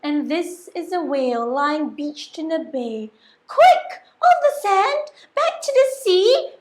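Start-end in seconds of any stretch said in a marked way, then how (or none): 3.5-6.5 high, loud urgent call; frantic high cry. Acted. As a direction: shout for the whale to hurry back. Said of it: "cried the snail".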